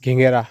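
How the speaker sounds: घिंगेरा said clearly as ghin-ge-ra, stress on the middle syllable; local fruit name. Shown as a demonstration. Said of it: "इसको हमारे यहाँ बोलते हैं".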